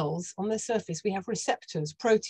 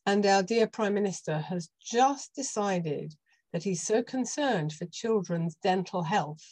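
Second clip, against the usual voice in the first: sarcastic. Real, not acted. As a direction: feign admiring concern, deadpan. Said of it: "I'm being sarcastic".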